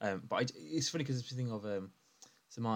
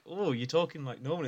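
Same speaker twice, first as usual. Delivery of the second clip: surprised reaction; 6 semitones higher than usual. Retold or imitated. Voices surprised reaction to relatives' kids.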